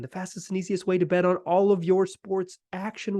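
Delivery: upbeat sponsor read. Acted. Host reads the Bet Online sponsor spot to listeners, upbeat ad read. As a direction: sell it like a radio spot.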